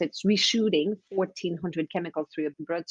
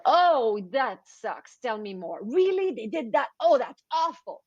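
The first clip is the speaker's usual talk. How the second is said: mock sympathy; 4 semitones higher, slower than usual. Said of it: "they want somebody to tell them".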